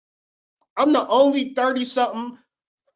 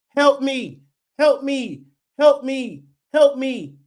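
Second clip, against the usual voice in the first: higher, pleading, louder help me, help me; mock body screaming; 5 semitones higher, 3 dB louder, slower than usual. Body begging its owner for help, in a higher mock scream. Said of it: "your body screaming".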